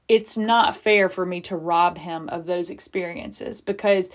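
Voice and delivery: ordinary talk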